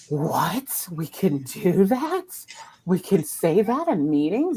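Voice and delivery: gasp, then slow astonished questions; mock amazement. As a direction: imitate people amazed they're allowed. People amazed by the permission.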